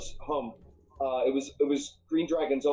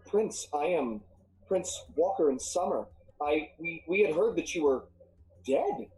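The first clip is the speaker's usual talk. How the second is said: mildly acted disbelief, pitch leaping at the end; lightly voiced milliner stunned to see her prince; shocked. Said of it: "she seems very shocked".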